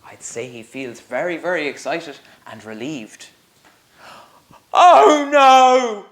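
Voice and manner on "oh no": high, loud mock wail; a big baby wailing; wailing giant. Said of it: "the giant sobbed and wailed".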